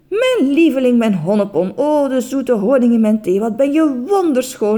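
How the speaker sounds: delighted cry. Acted. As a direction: call out to your bride, enchanted. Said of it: "riep meneer Just verrukt". (verrukt en luid uitgeroepen)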